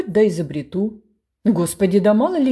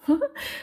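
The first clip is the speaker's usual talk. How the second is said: giggle; 7 semitones higher, 3 dB quieter than usual. A narrator's reading. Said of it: "Жилец захихикал".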